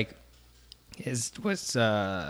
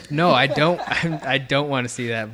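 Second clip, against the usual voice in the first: laughing; 3 semitones higher, 5 dB louder than usual. Real, not acted. Laughs off the question.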